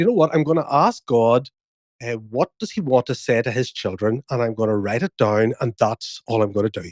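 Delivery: ordinary talk, nothing marked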